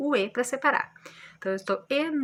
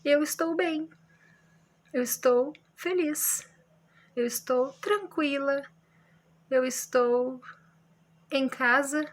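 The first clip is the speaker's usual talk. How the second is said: calm statements; 4 semitones higher than usual. Shown as a demonstration. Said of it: "que é simples, normal".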